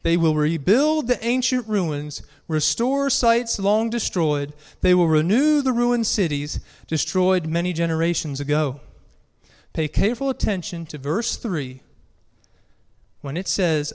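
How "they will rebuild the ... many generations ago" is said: scripture reading. Acted. Preacher reading Isaiah to the congregation, proclaimed scripture reading.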